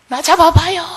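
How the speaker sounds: high, loud playful calling; coy bride. Acted. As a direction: tease him into chasing you, hammed up.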